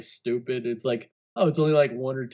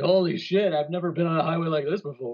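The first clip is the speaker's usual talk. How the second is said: mock awe; 3 semitones higher, much faster than usual. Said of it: "They're like".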